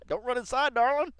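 high, loud creepy croon; creepy imitation. Viewer imitating a creepy singer, loud high croon. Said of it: "That's Joseph Myrick right there".

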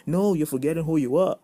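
emphatic correction. Acted. Preacher correcting someone who claims to be sick, emphatic correction. Rebuking an imagined complainer.

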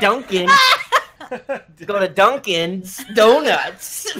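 put-on slow Boston accent. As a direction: drawl it out like Boston. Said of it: "Can you do a Boston accent?".

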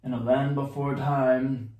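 measured documentary narrator; Morgan Freeman. Acted. Player hints who narrates everything, narrator impression. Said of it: "Morgan Freeman".

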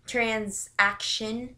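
"transaction" said very slowly, rising at the end; drawn-out word. Shown as a demonstration. Vlogger repeating a word to check it, "transaction" slow and rising. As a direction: stretch out "transaction" with a questioning rise.

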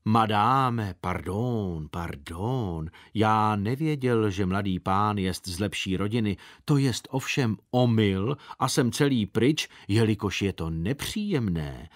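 a hint of mock-solemn bowing apology. Circus boss apologising to the governess, lightly solemn. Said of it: "pravil velebným hlasem".

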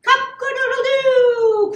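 loud, high, sustained crowing; rooster crow. A narrator's reading. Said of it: "crowed the rooster".

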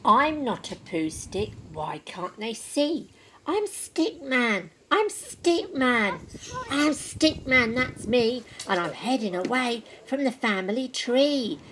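soft, slow forlorn refrain; quiet, slow lament while floating away; sad Stickman. Acted. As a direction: murmur it, drifting and lost.

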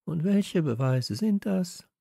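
high, slow, doubting question; sceptical. A narrator's reading. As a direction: ask it slowly with pointed disbelief. Steffi doubts Kalle, sceptical question.

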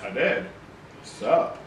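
put-on bored cocky teen; cool kid attitude. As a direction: toss it off like it's nothing. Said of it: "Why are you talking like that?".

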